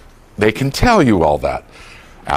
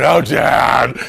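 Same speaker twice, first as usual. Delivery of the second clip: exasperated daughter. Retold or imitated. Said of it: "And they're going".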